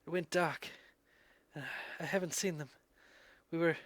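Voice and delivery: weak, quiet, halting voice of a hurt stranger; dazed injured man. Acted. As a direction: barely get the words out, fading.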